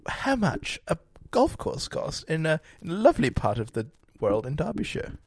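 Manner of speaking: lightly posh English voice. Pretend. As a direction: put on a posh inquiry voice. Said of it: "use my posh voice".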